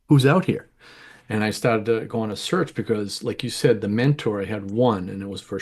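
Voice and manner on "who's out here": louder, pitched-up call into the open; a playful hail from coming out of the closet; mock calling out. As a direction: call out warily like someone peeking out. Peeking out of the closet.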